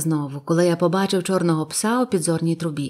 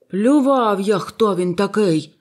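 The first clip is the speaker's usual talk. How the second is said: a louder, slower dismissive outburst; gruff retort; 4 dB louder, slower than usual. A narrator's reading. Silver snaps back at the boy, loud and dismissive. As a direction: brush it off loudly as the tavern keeper. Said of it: "відгукнувся Сільвер".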